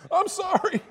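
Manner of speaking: high, fast scared apology; frightened teen apology. Retold or imitated. Skinny teenager apologizing to a bloody man, high and scared. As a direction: squeak out a panicked sorry. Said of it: "little skinny teenager".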